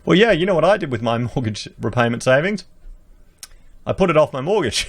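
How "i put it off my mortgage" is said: chuckling through the punchline; a light laugh on the words; amused self-mocking delivery. Real, not acted. Laughs at own joke.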